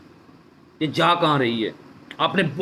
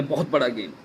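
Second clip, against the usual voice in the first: much softer, lower repeat of बहुत बड़ा game; quiet lower echo; 6 semitones lower, 6 dB quieter than usual. Real, not acted. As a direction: let बहुत बड़ा game sink into a low murmur. Emphatic repeat of claim. (धीमी, नीची आवाज़ में दोहराना)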